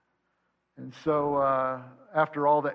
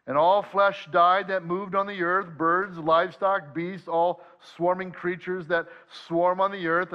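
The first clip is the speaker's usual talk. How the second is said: measured, slightly raised reading of scripture; 2 semitones higher than usual. Acted. Pastor reading Genesis to the congregation, measured scripture reading. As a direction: read the passage aloud to the congregation, unhurried.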